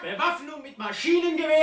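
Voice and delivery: angry shouting. Acted. Brawl of insults in meeting.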